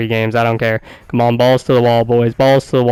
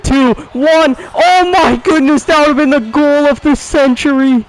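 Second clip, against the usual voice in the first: excited outcry; 12 semitones higher than usual. Real, not acted. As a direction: yell as the clock runs out. Buzzer chance just missed.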